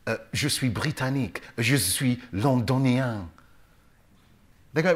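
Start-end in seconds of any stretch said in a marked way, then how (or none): 0.1-3.3 put-on French accent. Answering a Frenchman where he is from, light French accent. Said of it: "when I go to France".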